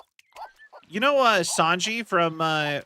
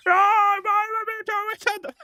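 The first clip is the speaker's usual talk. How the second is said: much higher, fast, hammed-up movie voice; movie character ham; 3 dB louder than usual. Mocking the movie version's character, hammed-up and high. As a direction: blurt it like an overacted film wizard. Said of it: "the character is just".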